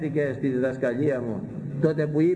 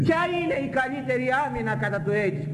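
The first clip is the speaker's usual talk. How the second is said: much higher, slow, accusing preacher's challenge; indignant rebuke; 13 semitones higher than usual. Retold or imitated. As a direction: hammer the question home from way up high. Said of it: "Τους είπα".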